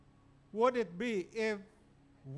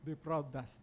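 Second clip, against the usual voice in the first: the title repeated softer and lower; quiet echo; 7 semitones lower, 6 dB quieter than usual. Shown as a demonstration. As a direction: let the title sink in, quietly.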